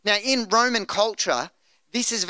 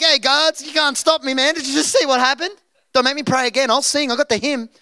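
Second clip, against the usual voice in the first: higher, louder cocky taunting of guards; bold playful brag; 4 semitones higher, 3 dB louder than usual. Pretend. Preacher playing a cocky prisoner taunting the guards, loud and higher. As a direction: swagger it at the guards for fun. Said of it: "I'd be bold".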